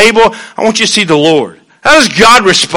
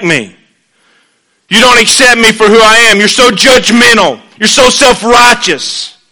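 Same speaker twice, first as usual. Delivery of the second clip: pouty tantrum; 5 semitones higher than usual. Acted. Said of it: "in his pouty box, throwing his temper tantrum".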